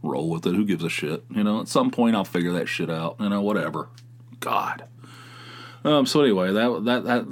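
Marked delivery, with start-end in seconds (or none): 0.0-1.2 unbothered shrug. Retold or imitated. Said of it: "But now I'm just like".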